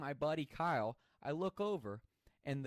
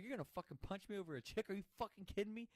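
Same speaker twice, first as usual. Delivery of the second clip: angry; 8 semitones higher, faster than usual. Retold or imitated. Friend tried to punch him.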